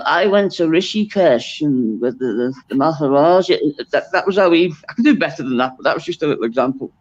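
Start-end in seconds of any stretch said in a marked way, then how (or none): 0.1-3.6 put-on clipped, measured Liverpool voice with a softened Scouse accent; a light impression of a singer, clipped Scouse. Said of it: "very kind of clipped and measured".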